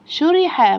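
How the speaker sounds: syllables snatched together as one word. Shown as a demonstration. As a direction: run the syllables together briskly. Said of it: "أسرع".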